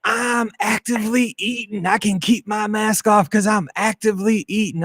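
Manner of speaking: mock the entitled passenger defending herself; snippy passenger. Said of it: "they go".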